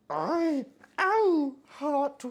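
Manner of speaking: sudden high loud ow; real pain yelp. Real, not acted. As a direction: yelp from a hot burn. Burns hand on pizza.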